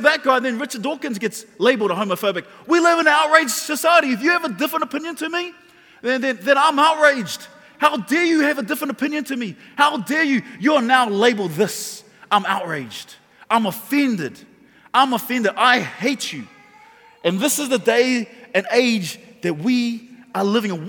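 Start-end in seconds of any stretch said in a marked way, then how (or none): 6.0-16.5 mock outrage. Acting the outraged person.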